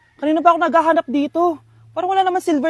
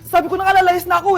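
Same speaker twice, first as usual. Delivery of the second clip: loud complaint; 3 semitones higher, 4 dB louder, faster than usual. Acted. Child threatens to run away.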